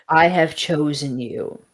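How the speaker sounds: lightly voiced solemn being; a hint of solemn pronouncement; otherworldly voice. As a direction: announce it like a voice in someone's head. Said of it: "And the voice goes".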